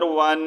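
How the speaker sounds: ون with the n held in the nose; long nasal "wannn" on ون; ghunnah. Shown as a demonstration. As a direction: hum the noon of ون nasally for a second. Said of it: "ناک میں آواز لے کے جانی ہے".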